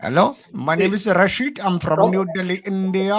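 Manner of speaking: playing a Microsoft support caller with an Indian accent. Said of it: "I can do a perfect Indian".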